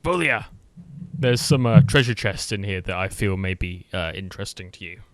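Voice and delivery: loud call down the cavern, easing off at the end; character yelling to lure an ally. Acted. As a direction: shout to a friend across the room. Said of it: "coughs and he yells".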